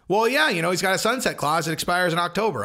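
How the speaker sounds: lightly mocked offhand remark; flippant mimicry. Host imitating people who missed the deal's importance, flippant. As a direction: toss it out as no big deal. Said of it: "kind of flippantly like".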